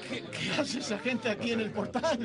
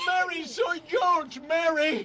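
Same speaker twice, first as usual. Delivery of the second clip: desperate shout; 5 semitones higher, slower than usual. Acted. George pleads, unrecognized, shouting.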